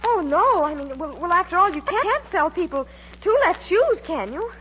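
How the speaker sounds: nervous, halting protest with jumps in pitch; jumpy. Acted. Mary stalls Higgins in the stock room, jumpy and flustered. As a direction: stumble over your words, on edge. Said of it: "what are you so jumpy about".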